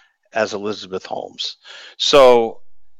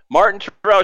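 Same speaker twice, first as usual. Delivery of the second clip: "Martin Terrell" higher and louder, a loud announcement; cabbie announcing the name; 9 semitones higher, 5 dB louder than usual. Retold or imitated. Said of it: "And the cabbie said".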